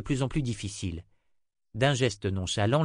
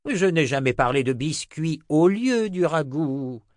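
mock grumble from an old wizard, higher, not hushed; muttering old wizard; 6 semitones higher, 5 dB louder than usual. A narrator's reading. Old wizard complains to the cook about the stew, grumbling. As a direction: grumble like a put-out old wizard, drawing out the end. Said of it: "marmonna le vieux sorcier".

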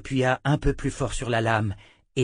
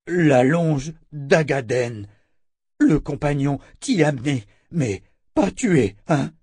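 slow, halting, raised creature voice; monster captive, uneasy; 5 semitones higher, 6 dB louder than usual. Acted. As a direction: drag out the words as a nervous monster. Monster character in narrated story.

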